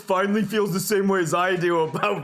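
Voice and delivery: lightly voiced frat boy, laughing; a hint of a smug frat bro. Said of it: "why are you making their voice like that".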